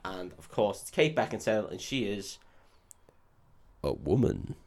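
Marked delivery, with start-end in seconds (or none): 3.8-4.5 mock woman voice. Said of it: "I'll do a better one in a sec".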